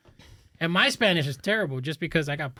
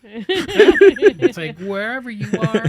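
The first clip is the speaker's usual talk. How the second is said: laughing; 4 semitones higher, 9 dB louder, much slower than usual. Real, not acted. Laughing reply among friends.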